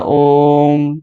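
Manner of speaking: ओम held out slowly at triple length; a long held ओम; prolonged Om. Shown as a demonstration. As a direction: draw out ओम like a chant. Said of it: "तीन गुना समय लगता है".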